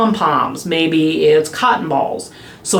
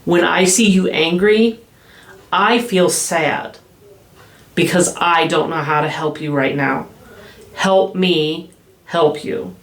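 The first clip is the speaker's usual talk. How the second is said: gentle sad demo. Shown as a demonstration. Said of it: "labeling your own emotions".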